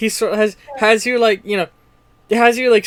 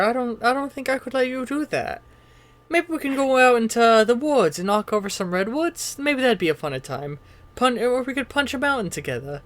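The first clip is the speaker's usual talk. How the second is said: high, soft-spoken, friendly monster; Bob Ross impression; 4 semitones higher, 4 dB quieter than usual. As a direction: gently coax in a soft, high voice. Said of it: "Giant monster Bob Ross".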